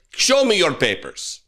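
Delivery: put-on a half-hearted German accent that barely lands; mock German officer, a weak attempt at the accent. Mocking masked police demanding citizens' papers, in a feeble German accent. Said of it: "That was me attempting to do a German accent".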